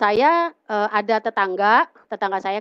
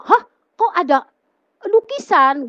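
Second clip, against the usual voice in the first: higher-pitched retold surprise; startled; 7 semitones higher, 4 dB louder than usual. Girl seeing the painting on entering, startled. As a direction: re-enact being taken aback, pitched up. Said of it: "saya kaget".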